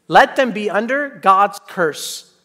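slow, heavy pronouncement; solemn curse. Acted. Paul cursing false preachers, slow and heavy. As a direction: lay down the curse slowly. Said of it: "Whoa, what is happening?".

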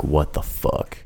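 whispered, low and hushed. Retold or imitated. Startled awake by a knock, whispering. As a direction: hush it like someone's outside at 3 a.m.

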